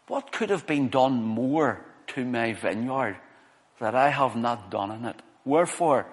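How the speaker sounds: slow, measured Bible reading with spaced phrases; scripture reading. Real, not acted. Preacher reads Isaiah's vineyard song to congregation, measured scripture reading. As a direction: read it out slowly, pausing after each phrase.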